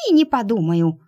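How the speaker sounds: puffing little mouse refusal; huffing mouse. Acted. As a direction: puff it out, short of breath. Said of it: "пропыхтел грызун".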